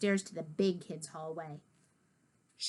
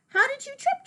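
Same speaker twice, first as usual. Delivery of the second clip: much higher, alarmed teacher asking; worried question. Acted. Teacher asking George how he fell, alarmed higher voice. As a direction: ask in quick alarm, pitched up.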